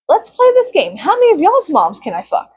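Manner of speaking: high, taunting game-show voice; mock taunt. Taunting the boys who harassed her, high mock cheer. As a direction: taunt them with their own game.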